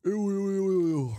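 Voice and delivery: high, loud string of yeses; excited agreement. Real, not acted. Host cheers friend's drink choice, excited and high. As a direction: whoop each yes up high, then ease down. Delighted agreement to plain kossu.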